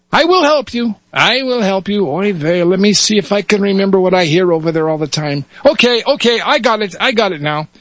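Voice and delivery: put-on high, fussing Yiddish-accented voice; Yiddish rabbi. Rabbi tries to recall the rites, Yiddish accent. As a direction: mutter and recall like an old rabbi. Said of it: "switch between dialects here".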